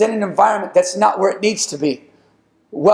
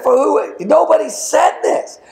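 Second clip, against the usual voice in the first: raised pitch, a fired-up challenge; bold challenge; 8 semitones higher than usual. Acted. Young David challenging the grown soldiers, high and bold. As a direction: call them out like a shepherd boy who can't believe it. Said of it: "And he said".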